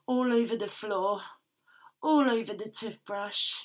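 intimate, aroused first-person storytelling; breathless submissive narrator lost in the moment; breathy erotic narration. Acted. Narrator reliving the scene for listeners, aroused and intimate.

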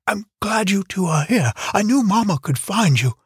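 put-on little girl voice. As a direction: chatter brightly like a young child. Young girl Jana talking.

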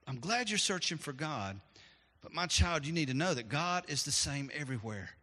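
a hint of a tender dad; gentle father. Father gently reassuring his searching son, softly. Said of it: "father replied very gently".

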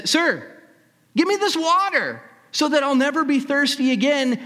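high, loud, pleading woman's voice; eager woman. Acted. Samaritan woman begging Jesus for the water, high eager plea.

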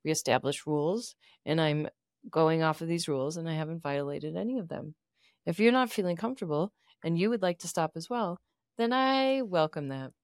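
low, measured and formal; calm therapist voice. Pretend. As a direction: answer like a calm counselor. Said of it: "let's role play this".

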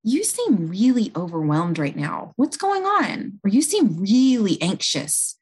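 a nurse gently asking an overwhelmed patient; gentle concern. Shown as a demonstration. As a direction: ask kindly, like you truly want to know. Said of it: "the first thing that I'll do is say".

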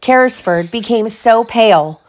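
animated storybook reading; lively bedtime-story voice; story narration. A narrator's reading. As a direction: read aloud to a child, lifting the characters' lines. Reads story to child.

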